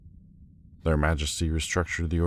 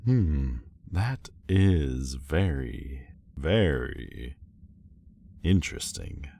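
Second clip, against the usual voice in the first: pointedly intrigued; slower than usual. Acted. Suspicious of the private meeting.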